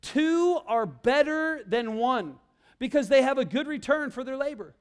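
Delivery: reading the memory verse out slowly; slow, deliberate scripture reading; slow recitation. Shown as a demonstration. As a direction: spell out each word of the verse. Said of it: "Ecclesiastes four nine says this".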